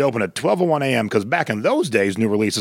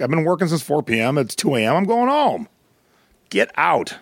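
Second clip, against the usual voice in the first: exasperated; 5 semitones higher than usual. Retold or imitated. Exhausted manager throws band out.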